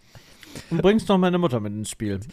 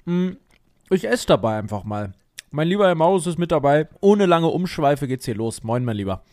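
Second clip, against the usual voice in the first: talking with mouth full; eating while talking; mukbang eating. Real, not acted. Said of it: "Mit vollem Mund starten wir".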